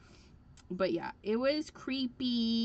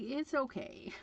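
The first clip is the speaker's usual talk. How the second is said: not really okay; 4 semitones higher than usual. Retold or imitated. Assistant answering her apology, unconvincingly okay. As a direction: imitate a wounded assistant accepting an apology. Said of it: "they didn't sound like it was okay".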